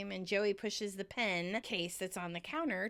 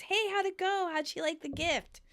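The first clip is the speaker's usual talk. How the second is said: excited; 9 semitones higher than usual. Retold or imitated.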